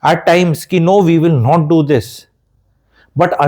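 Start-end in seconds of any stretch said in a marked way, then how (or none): 0.8-2.0 slow, firm no, putting a foot down; firm refusal. Retold or imitated. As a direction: lay down the law, slowly and flatly. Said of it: "you will have to put your foot down".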